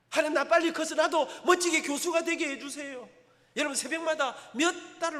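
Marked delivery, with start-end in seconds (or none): 0.1-3.1 빨리 in a louder, higher crying plea; impassioned prayer. Retold or imitated. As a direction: throw the whole line up to God, pleading hard. Climax of retold prayer.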